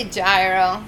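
gyro said as JAI-roh, drawn out; pronounced JAI-ro. Shown as a demonstration. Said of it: "I say gyro".

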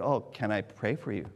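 asking kindly, almost hushed; gentle offer. Retold or imitated. Offering to pray.

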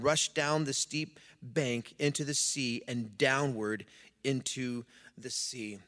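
measured, firm public Bible reading; scripture reading. A narrator's reading. Pastor reading the Gospel story to church, scripture reading. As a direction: read it out solemnly to a congregation.

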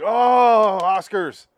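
high, loud mock gushing; mock excited crowd. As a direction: squeal it like an awed fan. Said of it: "everyone's like".

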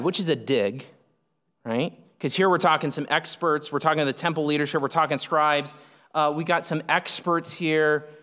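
ordinary delivery

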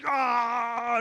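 long open "ah" at moderate volume; imitated victory shout. Preacher imitating Kobe facing the crowd, drawn-out mock yell. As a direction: mimic yelling out at the crowd. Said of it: "he goes like this".

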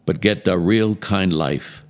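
put-on reading scripture in a light Hawaiian Pidgin accent. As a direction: try a friendly Hawaiian Pidgin lilt. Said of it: "it's into Hawaiian Pidgin".

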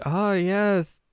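high, loud, drawn-out affirmation; hammed-up fan talk; overdone agreement. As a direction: overplay the enthusiasm, stretching the words. Acting an awkward fan cover-up.

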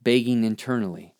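measured spoken-word poetry reading; poem recitation. Acted. Reads own poem aloud.

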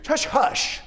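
"hush, hush" breathed as a whisper, falling. Retold or imitated. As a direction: hush the waves like a parent soothing a child. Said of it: "a southern way of putting it".

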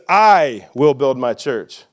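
slow, weighted "I" at the front; "I" leaned on, line unhurried; stress on I. Shown as a demonstration. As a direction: make it clear who builds. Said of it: "And then he says".

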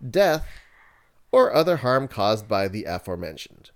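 corporate announcer reading a disclaimer; radio voice. Acted. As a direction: read it like a slick radio ad. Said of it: "I'm gonna put my radio voice for this one".

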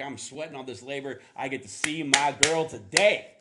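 excited, building to a loud cry at the end; a lovesick groom bragging about his hard work; eager groom. Retold or imitated. Groom bragging to the crowd about his work, excited. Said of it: "And he's like".

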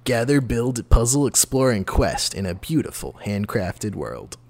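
slow, dramatic trailer read; movie trailer voice. Pretend. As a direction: announce it like an epic trailer. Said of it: "I can do the movie voice".

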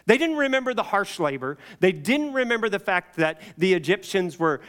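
ordinary talk, nothing marked

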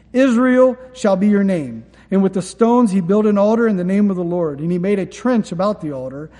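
steady read-aloud, quoted commands lifted; scripture reading. Acted. Pastor reading Elijah's altar story aloud, steady. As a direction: read the Elijah account to the flock. Reads First Kings aloud.

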